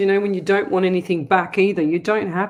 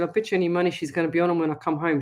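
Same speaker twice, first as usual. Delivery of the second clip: fast; much faster than usual. Retold or imitated. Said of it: "I said".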